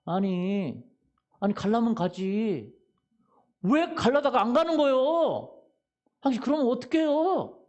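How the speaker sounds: irritated shout, slowing on the complaint; a hammed-up scolding from the driver behind; a touch of road rage, acted for the congregation; mock angry driver. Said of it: "하고 막 큰 소리 치네요".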